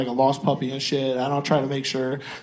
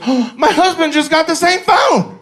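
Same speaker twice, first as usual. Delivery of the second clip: high, slow, sweet mock-innocent voice; innocent wife; 12 semitones higher, 8 dB louder, slower than usual. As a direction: play the naive wife, pitched high and drawn out. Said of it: "My wife looks at the phone and goes".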